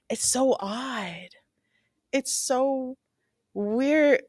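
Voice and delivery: slow unvoiced whisper; hushed and slow; creeped-out whisper. Real, not acted. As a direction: whisper it, unsettled. Creeped out reaction.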